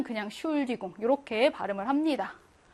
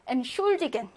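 엔슐디겐 stressed on 슐; light 엔, lean into 슐; stress after prefix. Shown as a demonstration. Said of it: "요렇게 뒤에 강세를 줍니다".

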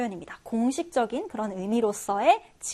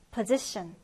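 position stressed on the middle syllable, -ZI-; stress on second syllable; 4 semitones lower, 5 dB quieter, much slower than usual. Shown as a demonstration. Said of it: "두 번째 음절의 강세를 두고". (position, 두 번째 음절에 강세)

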